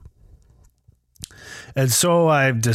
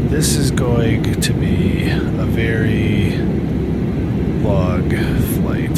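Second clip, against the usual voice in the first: on an airplane; 4 dB louder than usual. Real, not acted. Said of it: "now we are up in the air".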